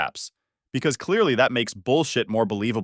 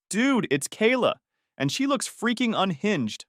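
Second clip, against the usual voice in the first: alarmed; 9 semitones higher than usual. A narrator's reading. Roommate alarmed at the peephole.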